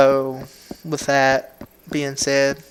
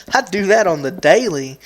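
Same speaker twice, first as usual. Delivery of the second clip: deadpan comeback; 4 semitones higher, 5 dB louder than usual. Retold or imitated. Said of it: "my response to those people are".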